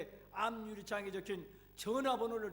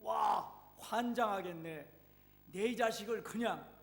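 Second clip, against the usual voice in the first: furious outburst; 5 dB louder, slower than usual. Acted. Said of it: "입에서 폭발하고 말았습니다".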